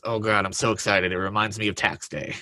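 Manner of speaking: deadpan, flat delivery; droll monotone sarcasm. Retold or imitated. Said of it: "the most monotone voice you'll ever hear".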